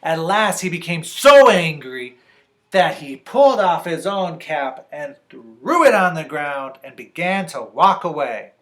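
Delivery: loud emphasis easing toward the end; dramatic story narration. A narrator's reading. Reader tells of the peddler giving up, dramatic narration. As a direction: punch the anger, then let it wind down.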